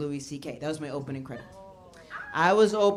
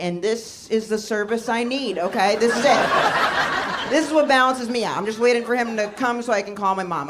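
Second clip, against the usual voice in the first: insistent, louder cover story building under pressure; mock panic; 4 semitones higher, 6 dB louder than usual. Tenant lying to landlord about the humping dog, mock panic. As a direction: keep lying through rising panic. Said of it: "I'm panicking, but I kept lying".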